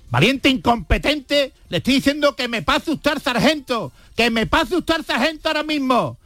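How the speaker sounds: a hammed-up general barking at the soldier on the phone; angry general. General raging down the line at the soldier, mock furious. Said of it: "le contestó el general".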